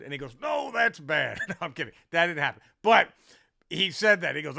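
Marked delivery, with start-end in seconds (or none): 0.4-1.4 higher, loud mock retort; hammed-up indignant comeback; irate club owner. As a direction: correct him loudly as the worked-up owner. Owner snaps back.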